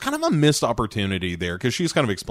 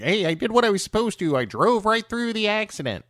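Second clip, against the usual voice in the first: dazed Cole; 9 semitones higher, faster than usual. Retold or imitated. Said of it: "he's like".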